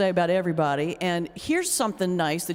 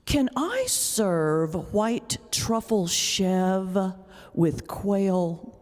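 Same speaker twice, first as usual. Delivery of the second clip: slow, posh-sounding mock shopper; snooty New Yorker; 2 semitones lower, much slower than usual. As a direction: imitate a fancy grocery snob. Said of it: "you hear people say things like".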